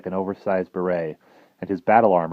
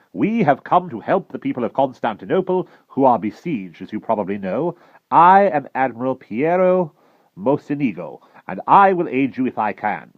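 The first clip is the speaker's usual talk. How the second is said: higher, louder commanding voice; grand admiral; 7 semitones higher, 6 dB louder than usual. Acted. Admiral declaring his aid to the travelers, grand and commanding. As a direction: proclaim it like a naval commander.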